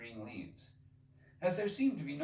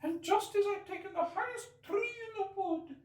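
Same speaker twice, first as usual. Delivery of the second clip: lamenting pigeon; 5 dB louder than usual. Acted. Pigeon ignoring Alice, fretful and aggrieved. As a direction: complain on and on like a fussy bird.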